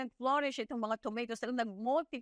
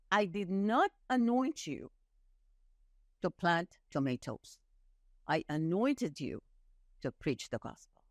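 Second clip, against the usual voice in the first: God's answer; 5 semitones lower than usual. Retold or imitated. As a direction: speak as God, calm and firm.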